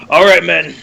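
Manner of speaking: rally the troops before firing; commanding captain. Acted. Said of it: "and he goes".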